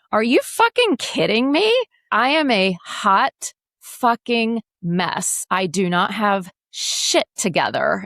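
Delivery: high, incredulous outburst, dragging the words; retold disbelief. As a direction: burst out high in mock disbelief. Her own retold outburst.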